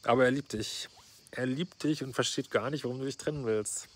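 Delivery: dry mock sympathy for the boyfriend; sarcastic. Coach mocks the letter writer's boyfriend, sarcastic. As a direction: say it with an ironic sneer.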